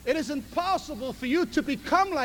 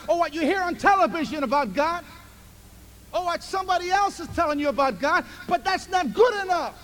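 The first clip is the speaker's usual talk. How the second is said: rising, louder preacher's build; preaching at full force; 5 semitones higher, 4 dB louder than usual. Acted. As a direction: drive it home to the congregation.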